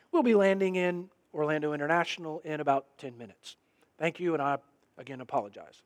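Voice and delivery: low, soft, super calm captain announcement; a lightly done airline captain, calm and unhurried; pilot voice. Retold or imitated. Pastor imitating the pilot calming the passengers, low soft calm voice. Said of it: "They just go into pilot voice".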